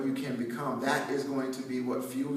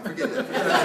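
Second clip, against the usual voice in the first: repeated dismissal, higher and louder each time; mock-stern forget that; 10 semitones higher, 7 dB louder, faster than usual. Dad waving off his daughter's Hollywood dream, hammed-up loud. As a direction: playfully shut down the idea, building up.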